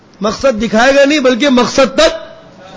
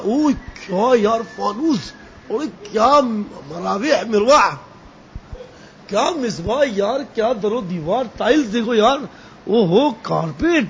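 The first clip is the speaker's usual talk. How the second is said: hushed awe; 6 dB quieter than usual. Pretend. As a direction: marvel quietly at every detail. Gazing at a lavish house. (دھیمی آواز میں حیرت سے)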